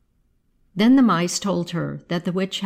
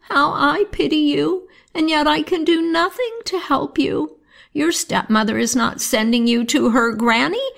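put-on high, pitying old grandmother near tears; a grandmother weeping over the twins; crying grandmother; 5 semitones higher than usual. Grandmother to the motherless twins, high and tearful. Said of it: "she cried and said".

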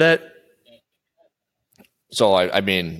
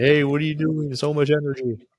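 pitched-up, light pretend yell; friendly neighbor yelling; 8 semitones higher than usual. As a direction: imitate an eager neighbor calling over. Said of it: "your neighbors were yelling at you".

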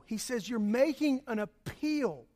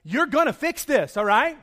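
louder, pressing you're gonna fix this; insistent demand; 3 semitones higher, 6 dB louder than usual. Retold or imitated. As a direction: make it a demand, not a favour. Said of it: "What I was really saying was".

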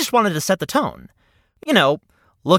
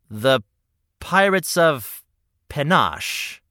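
slow title; 4 semitones lower, slower than usual. Shown as a demonstration. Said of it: "slow title repeat".

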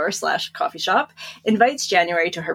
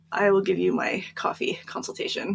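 whispered offer; 6 dB quieter than usual. Retold or imitated. Whispered pitch to Pete.

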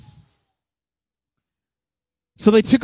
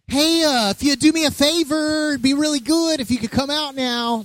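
higher-pitched, tentative asking; overly polite request; 5 semitones higher than usual. Acted. Mock Jesus politely asking Lazarus out, hesitant and mild. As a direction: ask meekly for a small favor. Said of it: "He wasn't like".

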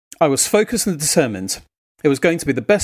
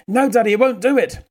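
put-on higher, childlike small-boy voice; a young child's voice, higher pitched; little boy; 8 semitones higher than usual. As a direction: play the toddler complaining to Daddy. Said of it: "he said".

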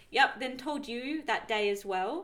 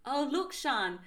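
lightly put-on German accent, a bit higher; imitated German accent; 4 semitones higher than usual. Partner dropping an awkward hint, German accent. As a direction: mimic his German accent with a laugh creeping in. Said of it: "oh, in his German accent".

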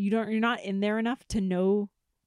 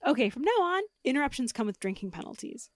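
stern; 4 semitones higher, 4 dB louder than usual. Real, not acted. Scolds interruption.

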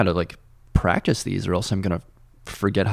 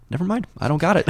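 comic giving up; 8 semitones higher, faster than usual. Retold or imitated. Retelling own comic giving up.

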